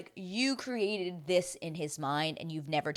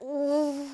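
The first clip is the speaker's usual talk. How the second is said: tag; 9 semitones higher than usual. Retold or imitated. Own reaction to harsh line.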